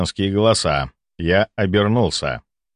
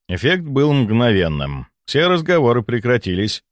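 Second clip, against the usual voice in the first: ordinary delivery, nothing marked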